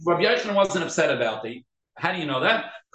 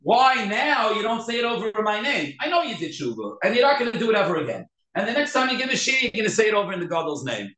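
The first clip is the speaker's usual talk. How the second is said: retold complaint, partly raised pitch; mildly acted upset; 5 semitones higher than usual. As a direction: lightly voice the rabbi's grievance. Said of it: "He's only upset".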